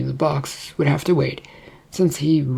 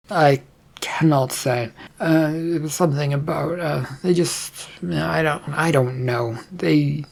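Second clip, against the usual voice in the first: halting excuse full of false starts; unsure, searching for the words; hesitant, fumbling; 2 semitones higher than usual. Acted. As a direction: stumble through an evasive answer. Mika fumbling an answer to the queen.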